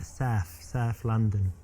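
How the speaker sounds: strong South London accent, drawn out. Shown as a demonstration. Showing a date the local speech, South London accent. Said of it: "they have a strong accent there".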